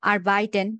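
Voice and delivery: "আর বাইটেন" with the R sounded. Shown as a demonstration. Teacher sorting German R words for student, R sounded. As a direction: pronounce the R in "আর বাইটেন" as a consonant. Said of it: "আরটা আর এর মতোই উচ্চারণ".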